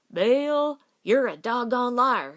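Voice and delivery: loud, hot-faced protest; indignant retort. A narrator's reading. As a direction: snap back at the teasing, loud. Embarrassed cowboy retorts angrily.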